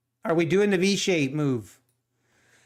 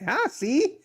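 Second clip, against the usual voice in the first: gloating; 4 semitones higher than usual. Retold or imitated. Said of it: "you're like".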